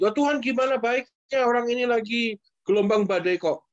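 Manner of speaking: nada lebih tinggi, membantah; protes orang kesusahan. Acted. Memerankan orang panik yang membantah. (protes mengeluh dengan nada naik)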